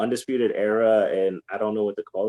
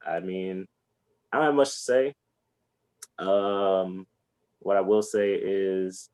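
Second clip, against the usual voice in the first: wrestling promo. Pretend. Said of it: "I'm gonna make you cut a promo right now".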